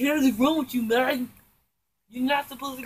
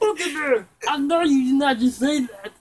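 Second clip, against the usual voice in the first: mock indignant yell; 4 semitones higher, 6 dB louder than usual. Scolding Pumpkin Bear.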